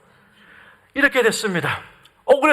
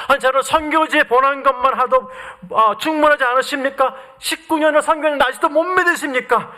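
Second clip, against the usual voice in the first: mildly indignant retold complaint, pitched up toward the end; angry protest; 3 semitones higher than usual. Missionary protests to God after nineteen years, mildly angry. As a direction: protest to God with a touch of anger. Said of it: "화가 났습니다".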